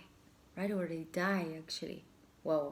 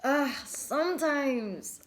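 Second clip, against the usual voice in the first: overwhelmed sigh; 8 semitones higher, 5 dB louder, much slower than usual. Real, not acted. Overwhelmed by the card message.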